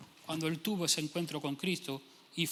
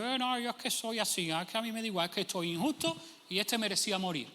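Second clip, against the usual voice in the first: whiny, higher mock excuse voice; 3 semitones higher than usual. Preacher mocking an imagined Moisés making excuses, whiny. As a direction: play a lazy man shrugging off blame.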